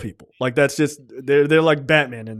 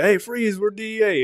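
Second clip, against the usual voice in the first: higher, half-joking cop command; mock DEA bust; 7 semitones higher than usual. Robbers posing as DEA to a woman, mock cop command. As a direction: fake agent barking freeze.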